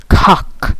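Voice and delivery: mock British accent on "cock", clipped short vowel; trying out a posh English "cock"; hammed-up English accent. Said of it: "My English accent".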